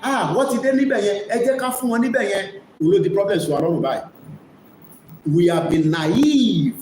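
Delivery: ordinary talk, nothing marked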